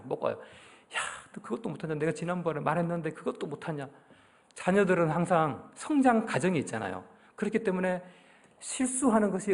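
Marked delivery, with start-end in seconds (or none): 0.3-3.9 softer, hissed nagging; nagging scold. Retold or imitated. Parent nagging the child over small mistakes, soft and hissed. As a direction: grumble at the child under your breath. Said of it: "막 잔소리를 하고 막 들들 볶습니다".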